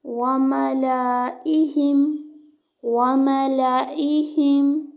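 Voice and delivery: मलाइहिम recited slowly, the लाम kept short and not stretched; Quran reading demo. Shown as a demonstration. Teacher models मलाइहिम for students, with a short लाम. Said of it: "लाम को लंबा नहीं करेंगे".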